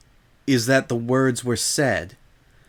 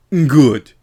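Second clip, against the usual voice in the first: Miss Vinton voice; 2 semitones higher, 8 dB louder than usual. Acted. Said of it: "some of that non-smirk made it into the sound".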